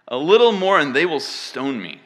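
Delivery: loud exclamation read as Moses; crying out. Acted. Moses tells the Lord of stoning, crying out. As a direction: raise the voice in alarmed complaint. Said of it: "Moses cried out to the Lord".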